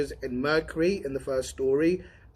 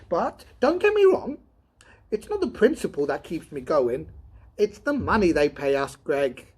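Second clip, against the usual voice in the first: higher, louder wild outburst; excited shout at the partner; 5 semitones higher, 3 dB louder than usual. Acted. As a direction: build it up to a shout. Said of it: "Powell jumped at Donovan's wild shout".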